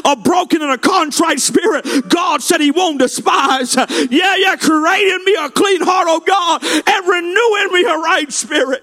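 driving, impassioned call to repentance; fervent revival preacher pleading with the congregation; full-force preaching. Real, not acted. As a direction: preach it hard, climbing in pitch at the end.

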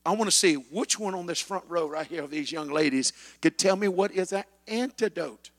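ordinary delivery

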